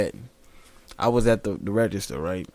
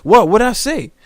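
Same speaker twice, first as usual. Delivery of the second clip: mock kid voice; 6 semitones higher, 6 dB louder than usual. Quoting kids.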